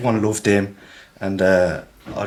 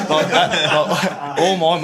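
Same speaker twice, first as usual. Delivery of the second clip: breaks into high laughter; laughing through the words; giggling while recalling mates; 8 semitones higher, much slower than usual. Real, not acted.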